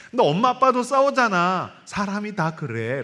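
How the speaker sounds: put-on high child's voice, slowing at the end; lightly voiced child telling mom about dad. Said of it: "엄마, 엄마".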